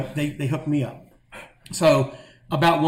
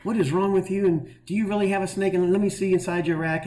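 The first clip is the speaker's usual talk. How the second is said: raised-pitch mock scolding from an angry chief; chief going off; 6 semitones higher than usual. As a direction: imitate the chief yelling at you, half-seriously. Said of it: "just, just going off".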